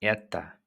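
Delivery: эта, stressed on the first syllable, with the final a unstressed; эта with a light, reduced final vowel; Russian эта modeled. Shown as a demonstration. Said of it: "we will say".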